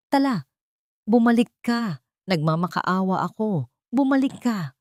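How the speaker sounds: put-on old cook shouting a desperate plea through rain; desperate pleading. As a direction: plead with her to come back, voice straining. Old cook begs Tala return.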